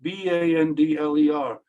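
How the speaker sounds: name said slowly, then spelled out letter by letter; deliberate, redundant self-introduction; slow, careful name. Shown as a demonstration. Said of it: "say it very, very slowly".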